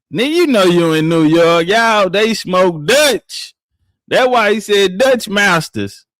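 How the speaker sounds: loud insistence. Real, not acted. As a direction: hammer it home to the chat. Arguing hard about New York.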